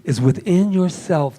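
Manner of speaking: a hint of a hushed, holy guru; mock the solemn spiritual teacher lightly; sacred voice. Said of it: "in sacred voice".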